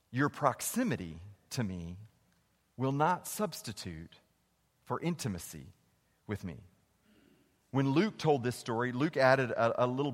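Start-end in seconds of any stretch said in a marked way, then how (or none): 0.1-6.6 low and soft, pressing the line home; soft repeat. Shown as a demonstration. Preacher repeating his key line to the church, softly. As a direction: drop to a hush to land the point.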